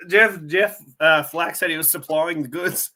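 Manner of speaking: talking with a burning mouth; words pushed through a burning mouth; mouth on fire. Real, not acted. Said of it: "Oh, my mouth is on fire".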